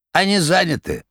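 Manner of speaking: high, rattling jester voice. A narrator's reading. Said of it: "дребезжащим голосом".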